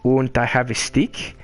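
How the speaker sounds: lightly put-on German-ish gnome voice; a hint of a cheerful gnome streamer; gnome Truffle voice. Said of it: "the Truffle Bundle stream".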